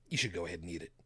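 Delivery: lightly voiced serpent, dropped low; a hint of low, persuasive snake; tempting serpent. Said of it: "Serpent comes along and says".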